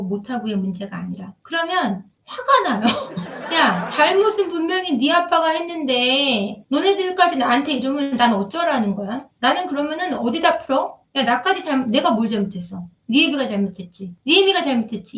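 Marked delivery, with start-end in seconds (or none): 3.5-9.3 put-on a raised, fed-up retort to her children; mother lashing out at her children over the fight; exasperated outburst. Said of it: "이 말이 막 저절로 나와요". 11.2-15.2 angry retort. Retold or imitated. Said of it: "이 말이 막 저절로 나와요".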